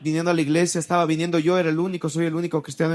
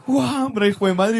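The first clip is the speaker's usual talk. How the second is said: a mock angry father's yell, higher; padre furioso; 5 semitones higher, 3 dB louder than usual. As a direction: bark it like an enraged dad turning back. (imitando al padre enfurecido, agudo)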